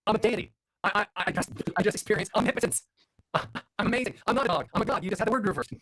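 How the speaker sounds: high-pitched mock-grandiose exultation; elated boasting. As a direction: crow about it like a self-declared god. Retold boast to his wife, elated.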